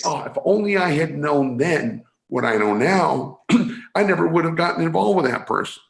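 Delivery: a hint of kicking yourself afterwards; regretful hindsight. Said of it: "And then you think".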